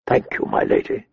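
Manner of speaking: soft breathless whisper. A narrator's reading. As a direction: whisper it close to her ear. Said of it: "he whispered".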